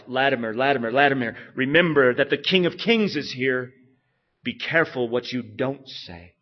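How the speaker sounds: preacher steeling himself before the king; Latimer to himself. Retold or imitated. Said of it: "Latimer said to himself".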